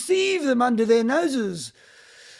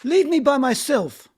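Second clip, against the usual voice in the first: desperate plea; 3 semitones higher, 4 dB louder than usual. Acted. Vanya desperate, sending them away.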